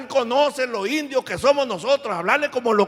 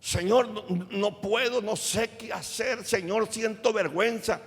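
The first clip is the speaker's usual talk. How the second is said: honest prayer; 4 dB quieter than usual. Pretend. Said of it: "Pero no le dice".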